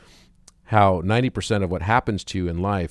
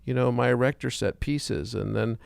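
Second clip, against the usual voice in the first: put-on pessimist little boy; 6 semitones higher than usual. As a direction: whine out every fear like a gloomy five-year-old. Pessimist boy voiced in joke.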